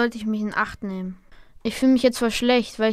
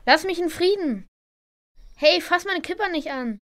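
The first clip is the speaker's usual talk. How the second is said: upset plea; 6 semitones higher than usual. Acted. Bullied boy pleads.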